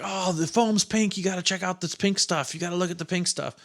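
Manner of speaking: high-pitched, thrilled kid imitation; excited little kid. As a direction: pester big brother in a high child's voice. Child self excitedly telling older brother.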